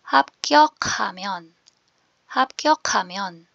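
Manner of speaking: 합격하면 said carefully as "hap-kyo-kha-myon"; proper pronunciation. Shown as a demonstration. Teacher reads the word aloud for learners, careful pronunciation. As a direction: model 합격하면 clearly, run together as "hapkyokamyon". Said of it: "basahin ko po with proper pronunciation".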